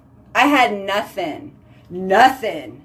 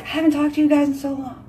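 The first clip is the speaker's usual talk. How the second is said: high, rushed mock panic; mock freak-out; 5 semitones higher, 3 dB quieter, faster than usual. Missing her viewers after a day, mock frantic. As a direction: rush it up high, hammed-up. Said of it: "I'm like".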